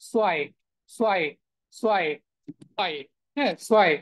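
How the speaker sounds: "সোয়াই" as a falling s-wai, unvoiced first sound; model pronunciation. Shown as a demonstration. Teacher drills German two for students, "সোয়াই" starting with s. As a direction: repeat "সোয়াই" singly, starting on s. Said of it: "এরকম হবে".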